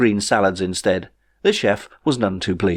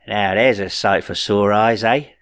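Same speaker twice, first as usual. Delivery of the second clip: grinning. A narrator's reading. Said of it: "He grinned a little and nudged Ray".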